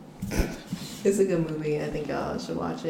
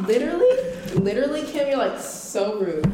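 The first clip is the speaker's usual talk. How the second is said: high mock scolding; light imitation of a friend saying rude; imitating Kim; 5 semitones higher than usual. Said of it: "That's what Kim be saying".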